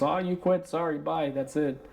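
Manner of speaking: lightly mocking dismissive voice; mock breezy brush-off. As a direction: toss it off like it's no big deal.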